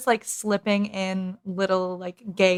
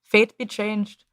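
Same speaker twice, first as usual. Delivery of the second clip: slow go at a Scottish accent; attempted Scottish accent; slower than usual. Shown as a demonstration. Co-host trying her own Scottish accent, tentative attempt. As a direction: try the line slowly in shaky-grasp Scottish. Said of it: "Wait, but now I wanna try".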